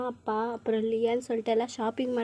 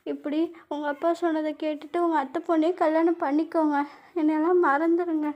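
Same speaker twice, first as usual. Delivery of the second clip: tearful; 4 semitones higher than usual. Acted. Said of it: "அப்படி நீங்க அழுவுறீங்க".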